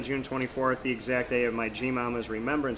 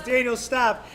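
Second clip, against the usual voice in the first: high-pitched mock wail; imitated crying yell; 10 semitones higher, slower than usual. Son retelling mom's plea while driving, imitated crying yell. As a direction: act out a helpless plea to stop. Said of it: "and she's crying".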